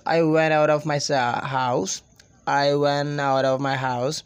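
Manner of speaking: linked, native-style English; native English linking. Shown as a demonstration. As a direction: join the words like a native English speaker. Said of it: "they connect one word with another".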